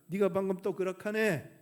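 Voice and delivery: Gyeongsang grandma. Retold or imitated. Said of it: "경상도 할머니가".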